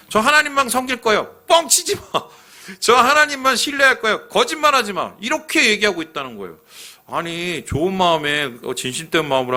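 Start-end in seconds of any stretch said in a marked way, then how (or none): 0.1-5.1 much higher, hammed-up back-and-forth; 과장되게 높여 주고받듯; mock exchange. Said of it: "이런 건데". (백성의 맹세와 여호수아의 핀잔을 높은 목소리로 과장되게 연기)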